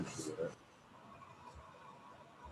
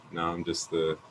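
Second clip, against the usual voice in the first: late night DJ voice; 2 semitones lower, 4 dB quieter, slower than usual. Shown as a demonstration. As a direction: ease into a late night radio host. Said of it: "late night D J voice".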